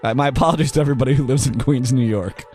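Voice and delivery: ordinary talk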